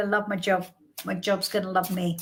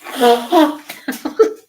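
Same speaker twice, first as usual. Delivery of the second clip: sneezing; 2 semitones higher, 8 dB louder than usual. Real, not acted. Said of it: "I'm going to sneeze".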